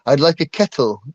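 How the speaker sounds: "kettle" with the T fully pronounced; crisply pronounced T's. Shown as a demonstration. British caller making themselves understood, T pronounced in "kettle". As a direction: sound out the T in "kettle". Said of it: "I'd have to pronounce the T's".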